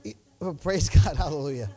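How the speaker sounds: loud burst of praise; shouted praise. Real, not acted. Preacher shouting praise to his congregation. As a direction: call it out to the church.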